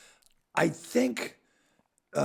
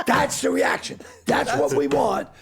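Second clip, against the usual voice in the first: excited director; 6 dB louder than usual. Retold or imitated. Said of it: "And he goes".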